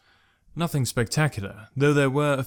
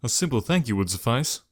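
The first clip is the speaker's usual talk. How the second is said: even, controlled, level tone on thank; calm reply. Acted. Malik calmly answers Jekrom's outburst. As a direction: swallow the anger, keep thank even. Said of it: "opting for the calmer response".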